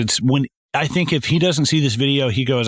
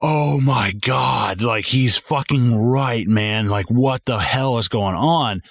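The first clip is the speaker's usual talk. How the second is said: stunned; slower than usual. Retold or imitated. Stunned reaction to twist.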